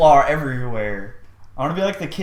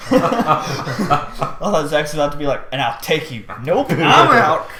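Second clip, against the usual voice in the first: laughing; 5 dB louder, slower than usual. Real, not acted. Laughing at the joke.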